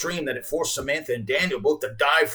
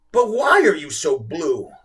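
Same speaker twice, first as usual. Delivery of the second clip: gentle tone; 4 semitones higher, 7 dB louder than usual. A narrator's reading. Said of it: "with a gentle tone of voice".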